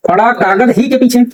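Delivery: "कागज" joined as one word before "ही"; word grouping demo. Shown as a demonstration. Teacher explains paper meaning of the example, deliberate grouping. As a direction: say "कागज" whole, then "ही के पीछे". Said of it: "कागज का मतलब page".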